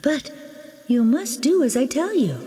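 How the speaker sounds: lightly voiced gentle fairy godmother; a hint of a mystical guardian; kind fairy godmother.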